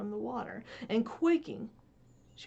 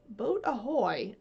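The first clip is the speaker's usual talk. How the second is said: a gentler repeat of the call; mild hail; 2 semitones higher, slower than usual. Acted. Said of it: "again came the voice".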